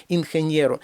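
«ingeniero» with soft n before stressed ye; soft n plus ye. Shown as a demonstration. Teacher models the same rule, soft n. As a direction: soften n, glide into ye in «ingeniero». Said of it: "іде м'який знак, а далі".

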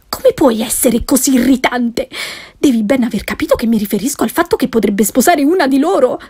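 fast, reproachful wife; lightly voiced annoyed wife; exasperated wife. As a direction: hurry the scolding, mildly irritated. Wife scolds irritating husband.

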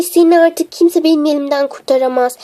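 low, controlled threat; menacing threat. Acted. Threatens the one who dropped cake.

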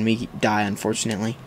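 ordinary talk, nothing marked

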